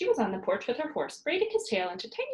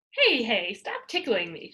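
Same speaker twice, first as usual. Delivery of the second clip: loud laughing shriek; 5 dB louder, slower than usual. Acted. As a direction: shriek with delight. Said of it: "shrieked Pippi".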